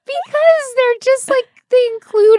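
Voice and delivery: high laughing answer, breaking up. Real, not acted. Laughing at her own answer.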